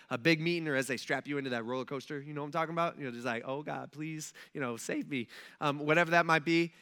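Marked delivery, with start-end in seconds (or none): 3.4-5.3 soft, under-the-breath mock plea; little quick prayer. Rider strapped into roller coaster, quick quiet prayer. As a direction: toss up a small, quiet plea. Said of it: "like, little quick prayers".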